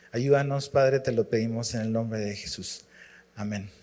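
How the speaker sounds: oración suave y pausada ante la congregación. Acted. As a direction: pide a Dios con recogimiento. Ora antes del estudio. (oración tranquila y sincera)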